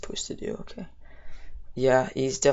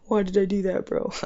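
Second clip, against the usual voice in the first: laughing; 6 semitones higher, 4 dB louder than usual. Real, not acted. Laughing at own misplay.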